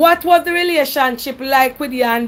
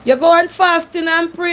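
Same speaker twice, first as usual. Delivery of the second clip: repeated more clearly; 3 semitones higher than usual. Real, not acted. Host repeating advice to caller who missed it, clearer. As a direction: repeat it so she hears it. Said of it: "Pardon me?".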